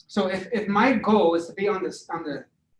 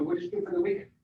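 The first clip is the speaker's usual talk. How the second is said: bright, much higher, interested question; friendly curious; 11 semitones higher, 6 dB quieter, faster than usual. Shown as a demonstration. Sales rep asking a caller about their weekend, higher and curious. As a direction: ask it like you really want to know. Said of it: "as I'm doing this".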